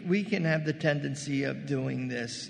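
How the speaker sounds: ordinary delivery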